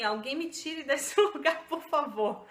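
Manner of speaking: half-joking cry to be rescued, breaking into a laugh; mock desperate plea with a laugh. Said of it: "eu tava me sentindo meio assim".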